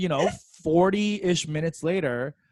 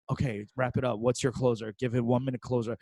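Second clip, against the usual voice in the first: inner thoughts; 4 semitones lower, 5 dB quieter than usual. Retold or imitated. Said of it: "going into my head thinking".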